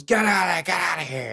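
high mock yell at helicopters; retold shout. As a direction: call out like warning. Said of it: "he screams at the helicopters".

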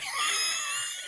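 shrieking laugh, high; high burst of laughter. Real, not acted. Laughing at a funny photo.

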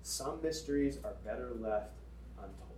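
a hint of a cryptic old professor; mysterious hush. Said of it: "his answer was always".

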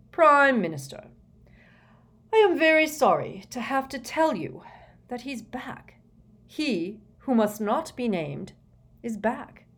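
high, halting, weighty announcement; grave minister. A narrator's reading. Fudge tells Prime Minister the dark wizard returned, grave. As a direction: deliver dreaded news in pieces with pauses.

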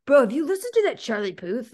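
lightly voiced bro, slight rise; guy voice. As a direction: play a casual gym bro. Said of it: "that's my guy voice".

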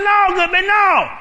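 high, loud pleading; worn-out husband begging his wife, loud and high; panicked protest. Acted. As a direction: cry out that it's too much.

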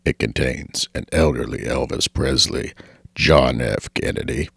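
low, soft announcer voice over music; airport announcement. Acted. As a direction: read it like a terminal PA. Podcast intro as train announcement.

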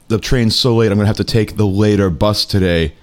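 mildly mock-tearful Russian-accented lament; imitated crying complaint. Host imitating a woman crying about the late train, mild mock lament. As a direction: lament it slowly toward the end, lightly Russian. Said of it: "She was crying, like, out loud".

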